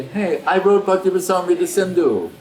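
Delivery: mock boast. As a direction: play a proud author showing off, as a joke. Imagined boast Rupa would not make.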